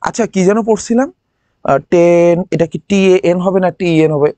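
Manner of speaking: ordinary delivery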